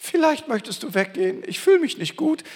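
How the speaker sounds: a weak, hesitant plea, not a command; timid pleading. Pretend. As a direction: shrink away from the enemy as you ask. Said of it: "Jesus hat nicht irgendwie gesagt".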